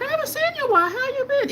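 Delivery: high, bubbly friendly-clerk voice; imitating Deb. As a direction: pitch way up as the chatty saleswoman. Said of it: "She'll be like".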